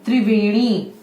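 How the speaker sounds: त्रिवेणी said clearly, tri-ve-ni; example word. Shown as a demonstration. Teacher giving children an example word, clear. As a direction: model त्रिवेणी with a firm tr. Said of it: "जैसे त्रिशूल".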